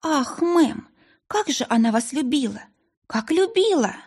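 high, mildly sobbed wail, understated; tearful lament. A narrator's reading. Grieving sister tells the lady she was loved, tearful lament. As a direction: lament with a touch of weeping, pitch lifted. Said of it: "снова разрыдалась".

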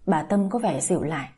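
plain reading voice

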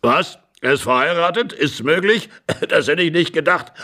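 put-on old man's incredulous questions, tipping into laughter; amused astonishment. Husband hearing the stranger is married, amused disbelief. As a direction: marvel and chuckle at the news.

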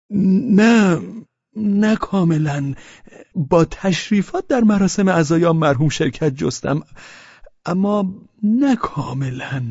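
high, loud, slow tipsy denial; flustered drunk. A narrator's reading. Pavel flustered, denies being drunk to Velchaninov. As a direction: lean on the word نه, dragging it.

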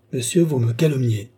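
acted wounded denial; indignant protest. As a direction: protest your innocence firmly. Gilbert protests against Rousseau's accusation.

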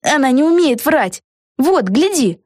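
put-on confident girl. A narrator's reading. Peggy's line.

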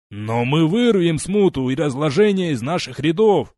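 loud booming proclamation; booming declaration. Acted. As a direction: boom it to the regiment. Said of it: "громогласно заявил он".

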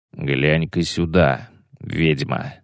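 low drawn-out threat; a hint of a hiss. Bonart shows medallions slowly. (угрожающе, медленно и тихо)

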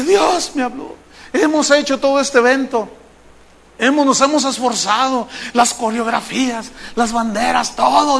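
lightly acted tearful plea; tearful organizer. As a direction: imitate a repentant man addressing the congregation. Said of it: "¿Por qué está llorando?".

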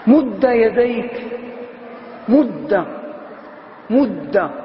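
مد said as madda, open a ending; madda with fatha. Shown as a demonstration. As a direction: stretch مد with a clear fatha, madda. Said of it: "رواية الفتح".

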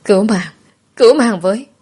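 acted child's cry for help. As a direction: call out for anyone to rescue you. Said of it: "Tôi cố gắng gào lên".

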